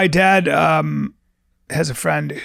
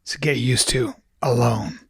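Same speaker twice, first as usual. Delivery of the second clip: mock sage whisper; 4 semitones lower than usual. Mock guru advice, whispered.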